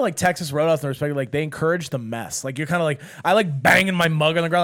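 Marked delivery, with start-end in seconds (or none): 3.2-4.6 rowdy shout. Acted. Acting rowdy feast.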